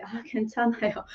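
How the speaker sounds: soft, quick 아 괜찮아요 brushing off a seller; polite refusal. Shown as a demonstration. Teacher shows how to turn down a street seller, softly. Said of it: "you can say".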